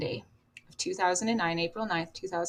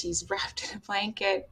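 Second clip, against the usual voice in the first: whisper; 6 dB quieter, slower than usual. Real, not acted. Describing her dead son.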